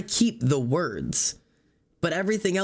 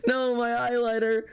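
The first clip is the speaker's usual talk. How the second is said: words squeezed out through laughter, much higher; laughing while talking; 9 semitones higher than usual. Real, not acted. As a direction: talk through a giggle fit. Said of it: "I'm crying".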